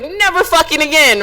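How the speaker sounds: defiant vow. Retold or imitated. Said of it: "I was like".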